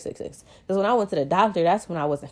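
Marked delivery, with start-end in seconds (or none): 0.0-0.4 muttered under breath; quietly to herself, almost unvoiced; whispered self-correction. Real, not acted.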